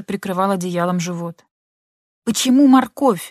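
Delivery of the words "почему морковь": high shrill shriek of a question. A narrator's reading. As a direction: shriek it at him. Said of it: "визжала она". (визг)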